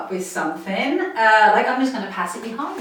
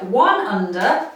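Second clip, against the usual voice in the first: slow counting cue; slower than usual. Shown as a demonstration. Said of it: "toss the ball".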